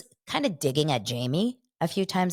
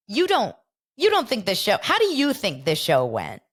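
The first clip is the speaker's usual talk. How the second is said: laughing disbelief; 5 semitones higher, 4 dB louder than usual. Retold or imitated. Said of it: "He starts laughing hysterically".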